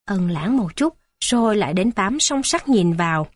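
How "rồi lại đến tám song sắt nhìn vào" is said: ordinary delivery, nothing marked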